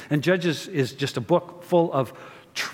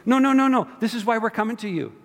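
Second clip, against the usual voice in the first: panicked pleading; 8 semitones higher, faster than usual. Pretend. Preacher voicing Israel begging God in a panic. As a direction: beg God not to leave, half laughing.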